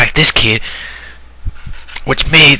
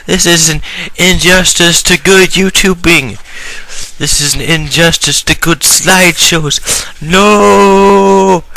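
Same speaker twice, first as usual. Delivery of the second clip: outraged shouting; 7 semitones higher, slower than usual. Acted. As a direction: rant at the top of your voice. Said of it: "starts saying".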